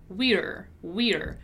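"We're" as one gliding word with its R sounded; "we're" clearly articulated, falling at the end; contraction drill. Shown as a demonstration. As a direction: model "we're" on its own for learners. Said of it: "focus on now is the pronunciation".

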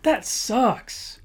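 exaggerated casual groan; dramatic dismay. Shown as a demonstration. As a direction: whine it like a teenager. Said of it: "spice it up a little bit by throwing some extra words".

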